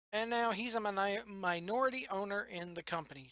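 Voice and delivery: tired, stumbling over words; tired stammer. Real, not acted. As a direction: trip over the word, worn out after work. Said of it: "Sorry if I'm stammering".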